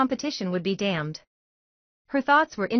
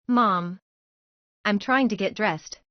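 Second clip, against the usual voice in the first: put-on whiny teenage voice; slower than usual. A narrator's reading. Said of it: "in her best whiny teenage voice".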